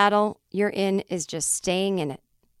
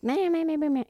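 mocking blah blah; 6 semitones higher than usual. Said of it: "and you aren't like".

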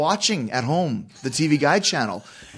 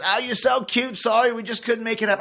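higher, sugary mock-sweet old lady, much higher; imitating Joan Rivers; 9 semitones higher than usual. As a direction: lay on fake sweetness like a diva brushing him off. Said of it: "she goes".

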